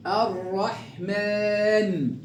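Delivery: الرحمن very slowly, rolled double r and long aa; slow recitation. Shown as a demonstration. Teacher drills the sun lam, slow recitation. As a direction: roll the ر in الرحمن, stretch the ending. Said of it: "كيف نقرأ هكذا".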